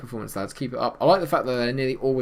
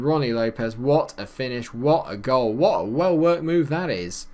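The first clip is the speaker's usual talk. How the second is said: excited goal call; 3 semitones higher, 5 dB louder than usual. Real, not acted. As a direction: marvel at the goal, growing more thrilled. Celebrating a goal in commentary.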